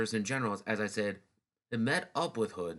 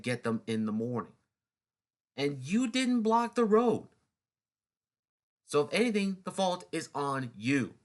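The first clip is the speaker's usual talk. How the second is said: a general scolding his officers, mock angry; berating; 3 semitones higher than usual. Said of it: "he berated them".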